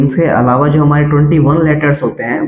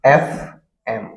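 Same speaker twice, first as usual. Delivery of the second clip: very slow, soft letter by letter; drawn-out letters; slow spelling; 4 semitones lower, 5 dB quieter, much slower than usual. Shown as a demonstration. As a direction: spell out एफ एम slowly and softly. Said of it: "spelled slowly".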